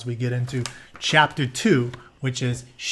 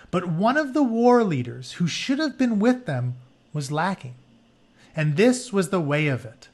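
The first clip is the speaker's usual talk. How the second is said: story narration. Acted. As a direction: read the myth to the class like an epic. Reads story book aloud.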